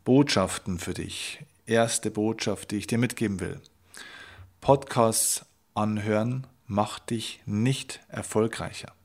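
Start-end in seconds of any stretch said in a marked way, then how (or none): 4.6-8.9 slow, weighty, each word set apart; slow emphatic statement. Shown as a demonstration. Coach stating his first message to the listener, slow and weighty. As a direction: lay down the first message slowly and firmly. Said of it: "Ich wiederhole das gerne nochmal".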